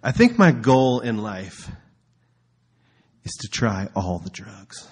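hammed-up earnest stoner; stoner Ron. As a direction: drawl it proudly like a stoner. Voicing Ron's goal.

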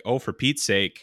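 slow northern Minnesota accent; drawn-out northern Minnesotan grumble. Shown as a demonstration. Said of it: "northern Minnesotan accent is, like, lowered voiced".

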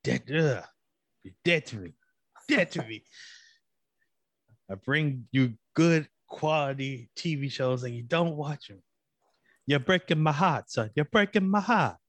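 hammed-up Italian accent, mock heartbreak. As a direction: play a wounded Italian, laying the accent on thick. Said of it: "whenever I do an Italian accent".

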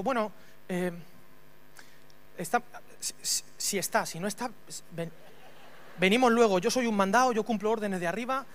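soldado apocado, bajito y entrecortado; titubeo acobardado. Retold or imitated. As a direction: titubea con pausas, imitando a un mandado. Soldado acobardado responde a Jesús. (voz baja, vacilante y sumisa)

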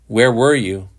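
harshly demanded question. A narrator's reading. Shepard demanding where Johnson was, harsh. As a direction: demand an answer. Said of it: "Shepard said harshly".

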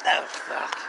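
very low, quiet, fading voice; acted overdose. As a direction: sink into a drugged mumble. Acts out overdosing.

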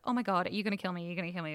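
fast, panicky gabble, mock-scared; freaked-out panic. Retelling a scared man's plea at the bar, fast mock panic. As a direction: rattle it off like a spooked guy. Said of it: "he's freaked out and he's like".

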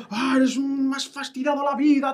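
a hint of a resentful adult; bitter adult. Imitating an adult who holds a grudge, mildly mocking. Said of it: "un adulto".

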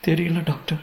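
small high tearful voice; chastened mother. A narrator's reading. Scolded mother answering the doctor, meek high voice. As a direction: answer meekly, pitch high.

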